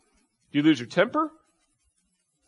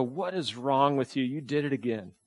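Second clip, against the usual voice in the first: self-scolding; 6 dB quieter than usual. Retold or imitated. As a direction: mutter it like scolding yourself. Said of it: "we kinda just kinda go".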